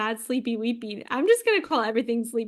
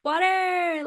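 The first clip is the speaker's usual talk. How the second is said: whisper; 7 semitones higher than usual. Pretend. Echoing friend's drink.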